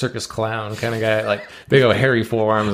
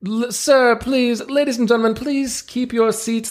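showman ringmaster; 10 semitones higher than usual. Acted. Ringmaster presenting seals to the crowd, grand showman voice. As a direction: play the circus ringmaster working the crowd.

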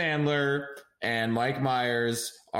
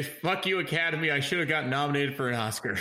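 super serious voice; 3 semitones higher than usual. Acted. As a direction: play it dead serious and indignant. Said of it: "in a super serious voice".

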